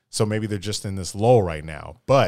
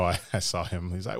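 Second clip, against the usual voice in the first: ordinary delivery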